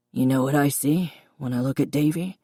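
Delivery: lightly voiced father in a quiet, reedy tone. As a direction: speak softly as a reedy-voiced dad. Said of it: "his reedy voice quiet".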